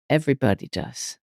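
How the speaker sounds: soft, low, settled answer; quietly assured, retold; retold gentle reply. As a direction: drop it down and say it softly after a pause.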